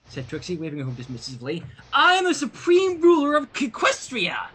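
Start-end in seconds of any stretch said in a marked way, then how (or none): 1.9-4.5 higher, crying out like a self-declared empress; a haughty ruler declaring herself supreme; grand proclamation. A narrator's reading. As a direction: boom it out to the whole throne room.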